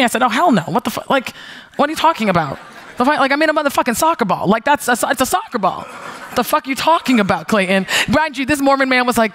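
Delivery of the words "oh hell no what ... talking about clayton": higher, fast, disbelieving rant; incredulous outburst. Retold or imitated. Retelling to Clayton, a fast incredulous outburst. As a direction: scoff at the absurd idea, rushing.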